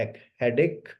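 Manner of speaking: हेडेक with a plain k sound, hedek not hedech; teacher spelling out that ache sounds like ek. Shown as a demonstration. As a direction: say the ache in हेडेक like ek, never ech. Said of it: "इसको एच नहीं पढ़ते, इसको एक पढ़ते हैं".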